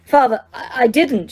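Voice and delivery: high panicked cry; shrieking. Acted. Son begging his father in terror, shrieking. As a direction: plead in terror. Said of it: "shrieked the boy".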